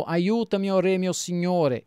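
woman crying out. Acted. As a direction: call up to the king for help. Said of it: "una donna gli gridò". (grido supplichevole della donna)

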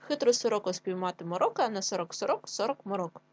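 brisk choral pace. Shown as a demonstration. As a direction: speed it up for the class. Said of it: "швидше".

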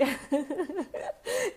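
high bubbly giggle. Real, not acted. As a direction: burst into a happy giggle. Giggling talk, laugh heard.

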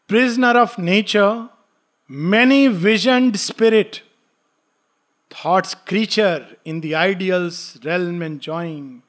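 slow, measured reading of verse; poem recitation. Acted. Teacher reciting Savitri to students, slow and solemn. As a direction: intone the lines slowly and gravely.

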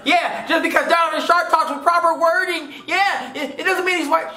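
high, exaggerated mimicry of a defender; mocking objector. Mimicking viewers objecting about proper wording, mocking high voice. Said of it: "You're so, you're out here".

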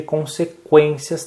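"consequências" slowed, leaning on QUÊN; stress on QUÊN. Shown as a demonstration. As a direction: mark the syllable QUÊN in "consequências". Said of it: "na sílaba quem". ("consequências" com ênfase em QUÊN)

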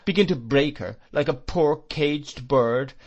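put-on fierce old aunt, sarcastic and high; mock his sweetness with scorn. Aunt mocking the stepfather's courtship, sarcastic.

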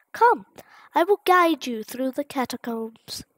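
lightly voiced gentle goat mother; a hint of a caring motherly voice; Toriel voice. Goat mother greeting a fallen child, a touch motherly. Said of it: "I have really bad voices for this".

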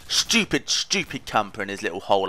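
annoyed jab at the camper; mock angry. Real, not acted. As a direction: spit the insult out. Growling at camper in hole.

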